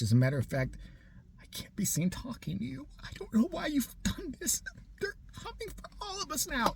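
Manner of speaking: paranoid hushed warning, dropping to a whisper; conspiratorial whisper. Pretend. Plotting to spook the neighbour with a paranoid whisper. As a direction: lean in and whisper like they're watching. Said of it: "look at her like this".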